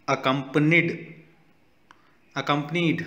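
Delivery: accompanied said with a clear final D; ending in a D sound. Shown as a demonstration. Teacher models accompanied with a D ending. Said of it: "ड का sound है".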